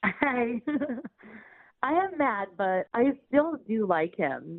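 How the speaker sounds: words bubbling with laughter while talking. A caller explains her situation to the radio hosts, laughing while talking. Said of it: "you sound like you can't stop laughing".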